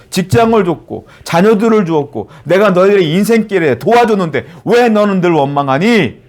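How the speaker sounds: acted, insistent reproach; reproachful questioning. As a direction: remonstrate as the giver of every gift. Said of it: "라고 물으실 거예요".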